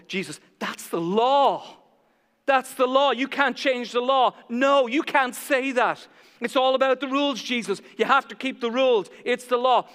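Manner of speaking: indignant scolding. Acted. Preacher acting Pharisees scolding Jesus, loud indignation. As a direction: hammer the rules at him, self-righteous.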